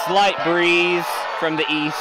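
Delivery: slow, hushed golf announcer; mock golf commentary, slow and measured; golf commentator. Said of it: "I feel like I'm narrating golf".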